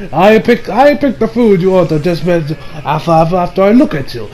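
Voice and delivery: lightly imitated Italian chef accent. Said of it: "I'm going to talk with an Italian accent".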